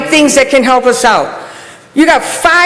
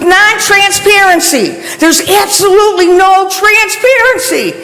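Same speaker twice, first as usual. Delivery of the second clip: raised, higher voice, fed up and demanding; venting real frustration at the council, pitch up; frustrated outburst; 6 semitones higher than usual. Real, not acted. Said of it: "I am so frustrated right now".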